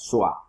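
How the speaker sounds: "Sua" as one joined syllable; "Sua" said in a single beat; synalepha. Shown as a demonstration. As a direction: run the vowels together in "Sua". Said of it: "Aquí quedan juntas".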